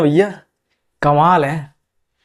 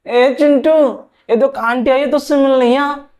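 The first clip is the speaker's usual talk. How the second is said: put-on higher, sing-song auntie voice calling the boy; a neighbour lady calling the kid in to meet her; 5 semitones higher than usual. Women voiced higher, calling child.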